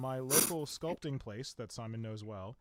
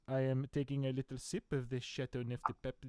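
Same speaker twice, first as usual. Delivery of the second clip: put-on French accent. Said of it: "my weird French accents".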